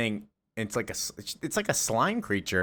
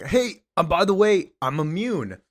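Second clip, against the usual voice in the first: high Lombard; 8 semitones higher, 4 dB louder than usual. Retold or imitated. Lombard voiced in retelling.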